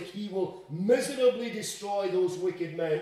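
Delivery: mild emphasis on "miserably destroy"; emphatic quote. Acted. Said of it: "it's an emphatic".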